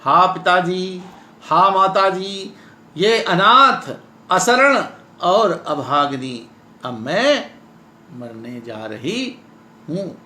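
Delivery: mild theatrical despair, dropping away; acted lament. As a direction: call to your parents as one doomed. Translated lament of the doomed heroine.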